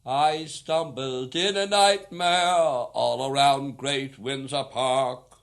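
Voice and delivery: sung in a hammed-up Oxford accent; unaccompanied song in a mock Oxford accent. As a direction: send up the posh Englishman in an Oxford accent while singing. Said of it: "an Oxford accent".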